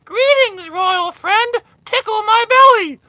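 high, loud squeaky talking-toy voice. Retold or imitated. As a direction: chirp it like a creepy talking toy. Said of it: "to hear in the back".

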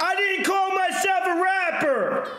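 high, defensive shouting; heated yelling. Real, not acted. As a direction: snap back at the critic. Defensive argument, high, loud.

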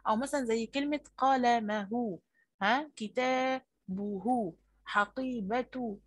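قلمه, كتابه, حقيبته drawn out slowly, each ending on a breathed h; teacher models possessive endings with an audible h; final haa shown. Shown as a demonstration. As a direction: stretch each word and sound its final h. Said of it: "الهاء في آخر الكلمة".

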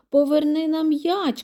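high, loud storybook shout; shouted demand. A narrator's reading. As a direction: demand it loudly from across the field. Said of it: "кричить Х'юга". (голосна вимога, вигук)

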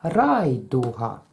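slow, syllable by syllable; Райдуга said slowly, leaning on the first syllable; rhythm demo. Shown as a demonstration. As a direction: spell out each beat of Райдуга. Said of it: "ми говоримо таке слово".

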